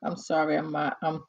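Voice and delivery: talking mid-sip of eggnog; words around a sip of drink; while sipping a drink. Real, not acted. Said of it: "I'm sipping on my, um, eggnog".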